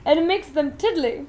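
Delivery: a giddy chocolatier showing off; Willy Wonka, grand and eager; eccentric Wonka. Acted. Wonka voiced, story reading.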